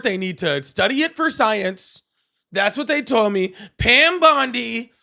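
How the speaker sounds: boastful impression with stretched, swooping emphasis; mock-presidential bragging in a sing-song swing; Donald Trump. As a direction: marvel at your own brilliance, hammed-up. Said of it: "Is my Trump impression getting".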